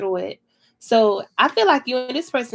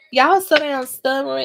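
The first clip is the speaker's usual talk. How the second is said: laughing, louder and higher; laughing tease; 4 semitones higher, 6 dB louder than usual. Real, not acted. Teasing the stubborn couple, laughing loudly. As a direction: laugh it out at how stubborn they are.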